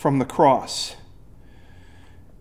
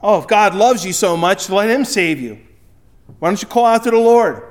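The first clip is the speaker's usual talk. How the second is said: sarcastic taunt; 3 semitones higher, 4 dB louder than usual. Retold or imitated. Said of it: "they're saying that sarcastically".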